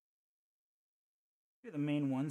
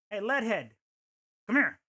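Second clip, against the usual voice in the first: loud, raised playful challenge; taunting call; 5 semitones higher, 7 dB louder than usual. Pretend. Player taunting a game enemy, taunting call. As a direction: call the enemy over for a fight.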